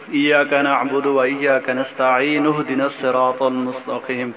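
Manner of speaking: slow Quranic recitation with hamza dropped in the join; Arabic verse chanted slowly, words run together. Shown as a demonstration. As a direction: recite it connected, letting the hamza fall. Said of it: "جب ملایا ہے تو".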